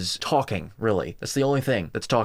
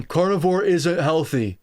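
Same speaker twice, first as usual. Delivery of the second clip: slow, higher sneering parody of his claim; mocking the opponent; 5 semitones higher, 3 dB louder than usual. Reacting to a diet critic, parroting him in a higher sneering voice. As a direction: parrot his line back with scorn. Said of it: "you just keep saying".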